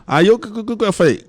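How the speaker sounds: ordinary talk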